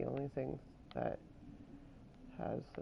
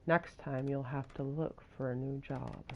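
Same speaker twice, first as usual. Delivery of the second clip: stern scolding; 5 dB louder than usual. Acted. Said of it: "sounds kinda mean".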